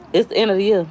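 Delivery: breathless, short of air; talking while winded; out of breath. Real, not acted. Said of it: "I feel so out of breath".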